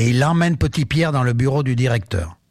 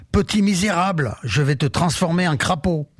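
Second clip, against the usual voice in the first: a hammed-up witch's threat, pitched up; witch yelling; 4 semitones higher than usual. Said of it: "Elle se met à hurler". (sorcière qui hurle, colère jouée sans forcer la voix)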